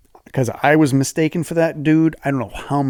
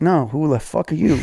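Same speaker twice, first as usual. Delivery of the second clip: laughing; 3 semitones higher than usual. Retold or imitated. Annoyed reply, laughing.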